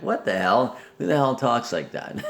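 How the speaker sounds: incredulous, laughing through the words; half-laugh at how outrageous that was; laughing disbelief. Real, not acted. Reacting to her bathroom remark.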